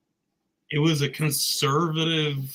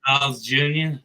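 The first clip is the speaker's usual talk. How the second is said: Australian accent. Shown as a demonstration. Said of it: "attempting an Australian accent".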